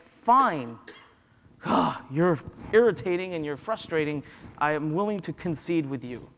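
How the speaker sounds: exasperated giving in, with a sigh; grudging surrender. Acted. Subconscious finally giving in, exasperated. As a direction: concede with an irritated sigh. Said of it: "It's going to say".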